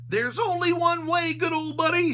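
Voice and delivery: high, loud Shaggy yell; yelling above the wind. A narrator's reading. Shaggy yelling to Scooby over the wind, high and loud. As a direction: shout over a howling blizzard. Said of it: "Shaggy yelled above the wind".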